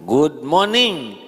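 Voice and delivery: slow, stretched English greeting; drawn-out good morning. Shown as a demonstration. Preacher mocks an English office greeting, slow. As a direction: say it lazily, stretched. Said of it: "Nggak jelas".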